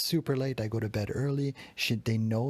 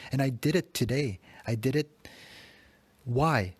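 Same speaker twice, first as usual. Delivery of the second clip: louder, self-scolding burst; angry at himself, raised voice; exasperated yell at himself; frustrated outburst; 3 semitones higher, 3 dB louder than usual. Real, not acted. Angry self-reproach, yelling at himself.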